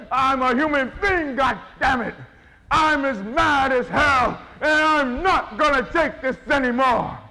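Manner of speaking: high, loud, slow furious cry; roaring yell. Shown as a demonstration. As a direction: roar it at the whole city. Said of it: "You've got to say".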